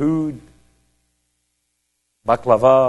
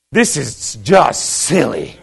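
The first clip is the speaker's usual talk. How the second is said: amused disbelief; 3 dB louder, much slower than usual. Retold or imitated. Retold amused reaction at the gates.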